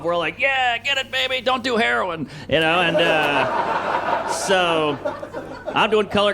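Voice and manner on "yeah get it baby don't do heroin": mock cheer for a friend; lightly hammed-up egging on. Teen friends cheer on the mirror kicker, egging on.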